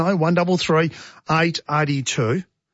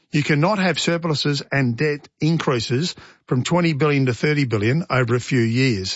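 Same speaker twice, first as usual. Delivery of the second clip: ordinary talk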